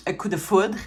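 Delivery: "coup de foudre" said in native Quebec French; French pronunciation. Real, not acted. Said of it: "See, my French is there".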